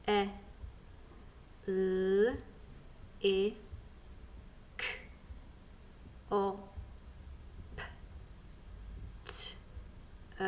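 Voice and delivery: E, L, I, K, O, P, T, E as isolated sounds; sounding out. Shown as a demonstration. Teacher and learners tackle the next one, sounding out. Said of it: "Let's sound out the next one together".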